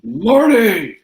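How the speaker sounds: very high, loud cry; hammed-up high yell; shouted name. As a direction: holler it like a film catchphrase. Shouted film character's name.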